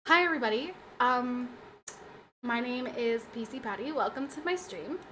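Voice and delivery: lightly voiced stream host greeting; put-on streamer voice. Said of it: "went into this voice".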